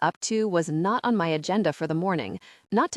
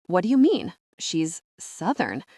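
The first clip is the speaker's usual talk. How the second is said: disdainful. Acted. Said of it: "said the word with disdain".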